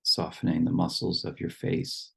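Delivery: calm instructions with long pauses between phrases; guided meditation. Real, not acted. Leading the group to settle in their seats, guided meditation. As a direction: guide them gently into the body, leaving long silences.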